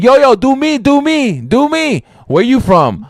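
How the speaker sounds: high excited begging voice; eager customers begging. Retold or imitated. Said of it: "everybody kept going".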